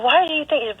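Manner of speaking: retold disbelief. Mother reacting to her son's fear of dying, incredulous. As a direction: lift the pitch in mild retold disbelief.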